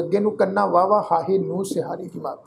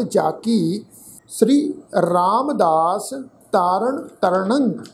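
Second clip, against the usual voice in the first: slow, measured chanting recitation of gurbani; ਹੌਲੀ ਸ਼ਰਧਾ ਭਰਿਆ ਪਾਠ; scripture recitation; much slower than usual. Acted. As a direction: recite each word slowly and devoutly.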